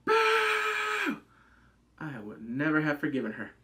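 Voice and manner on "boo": much higher, louder boo; high squealed boo. Pretend. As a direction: squeal it like a ghost.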